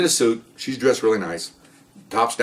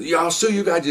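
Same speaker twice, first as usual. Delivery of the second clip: higher-pitched suspect's complaint; retold threat; 5 semitones higher than usual. Arrested man threatens the officers, higher-pitched complaint.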